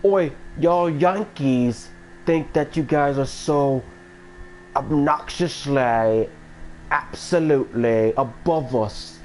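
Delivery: slow, hammed-up British telling-off; lightly mocking British accent; mock British man. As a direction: scold like a British man, drawn out. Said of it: "a British man".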